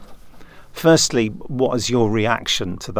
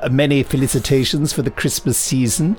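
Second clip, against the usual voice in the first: odd formal greeting. Acted. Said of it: "I don't know why I said hello".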